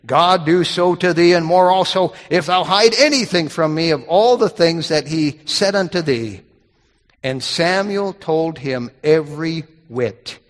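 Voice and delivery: measured, unhurried Bible reading; scripture reading. Acted. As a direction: read the King James text with weight. Reads the scripture passage aloud.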